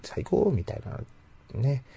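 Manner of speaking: put-on high cute anime girl voice; moe voice. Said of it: "萌え声み-、".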